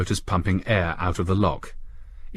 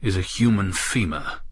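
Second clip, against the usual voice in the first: unsteady voice. Acted. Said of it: "he said in an unsteady voice".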